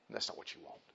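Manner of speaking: breathy whispered warning. Acted. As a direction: drop to a whisper. Unvoiced repeat.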